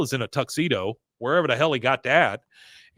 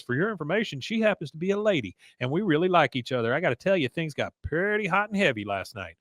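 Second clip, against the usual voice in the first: slightly higher, lightly voiced character quote; lightly acted, a higher pitch; Bill; 5 semitones higher, 3 dB quieter, faster than usual.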